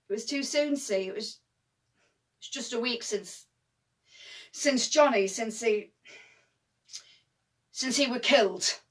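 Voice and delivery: grieving. Acted. Halting over a recent death.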